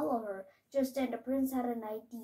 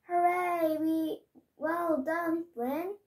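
cheering; 5 semitones higher, slower than usual. Acted. Child reading Pearl cheering Flynn after the ogre falls, higher and excited. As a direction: celebrate the win, pitched up.

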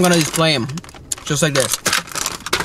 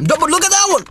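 amazed exclaim; 3 dB louder than usual. Real, not acted. Marveling at the figure's detail.

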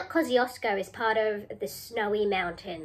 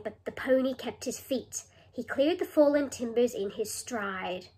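poem reading for rhymes. Shown as a demonstration. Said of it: "See if you can find the rhyming words".

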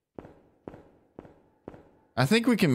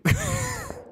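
sudden squeaky laugh, much higher; surprised high laugh. Real, not acted. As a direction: burst into a high giggle of relief. Startled by ghost response.

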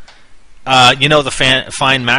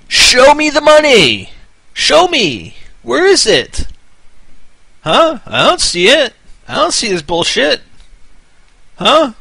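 high, loud, hammed-up demanding shout; mock angry taunt; 13 semitones higher, 5 dB louder, slower than usual. Taunting channels that never posted the promised video, mock shouting. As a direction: pretend to be furious and demand the goods. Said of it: "I'm just playing with you guys".

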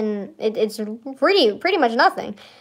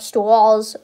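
JFK voice. Retold or imitated. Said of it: "why am I talking like J F K?".

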